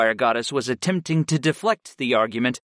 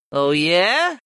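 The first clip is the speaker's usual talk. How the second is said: raised-pitch cat monster drawl; 6 semitones higher, 4 dB louder than usual. A narrator's reading. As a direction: drawl it as a sceptical cat familiar. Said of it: "the cat drawled".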